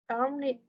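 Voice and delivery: "dominate" with the weight on its first syllable; stress on first syllable. Shown as a demonstration. Teacher giving an example of two-syllable stress, "dominate" stressed at the start. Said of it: "the first syllable is".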